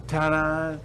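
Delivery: comic retrying the family's finale ta-da; ta-da redo. Acted. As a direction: land the big finale. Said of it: "Let me do it differently".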